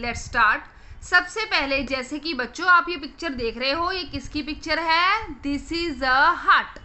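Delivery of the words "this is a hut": put-on very slow, drawn-out "hut" for children; slow word. Shown as a demonstration. Teacher to kids, naming the picture, very slow. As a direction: stretch every word of "This is a hut" slowly. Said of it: "ये एक हट type बना हुआ है".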